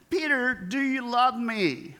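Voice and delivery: a hint of Jesus pleading; Jesus asking. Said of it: "Jesus asks three times".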